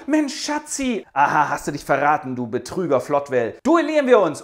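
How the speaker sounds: hammed-up furious father; mock outrage. Father challenges to a duel.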